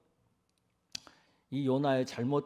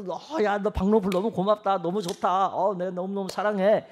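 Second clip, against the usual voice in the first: acted gushing in a raised pitch; higher, delighted mock fondness; overjoyed affection; 4 semitones higher, 4 dB louder than usual. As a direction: gush thanks to a beloved plant. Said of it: "너무 사랑하고 너무 그걸 기뻐하는".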